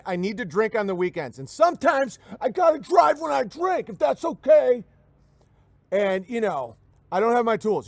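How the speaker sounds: loud mock redneck, peaking in a shout; white slacker handyman. Drunk handyman shouting his terms to the customer, hammed-up voice. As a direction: yell out excuses like a reckless drunk. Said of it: "the whites are like".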